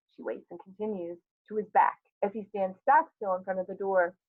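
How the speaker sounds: ordinary talk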